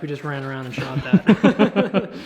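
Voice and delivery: laughing breathlessly; winded after running; out of breath. Real, not acted. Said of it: "why I'm out of breath".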